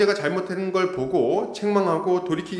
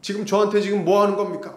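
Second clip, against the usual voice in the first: raised, louder complaint to the pastor; indignant protest; 4 semitones higher, 4 dB louder than usual. Retold or imitated. Church member angrily protesting to the pastor, raised voice. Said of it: "뭐 이렇게 얘기를 했다는 거죠".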